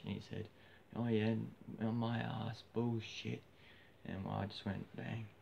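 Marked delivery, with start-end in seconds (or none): 1.0-3.4 scornful disbelief. Retold or imitated. Retold drunken argument before a fight.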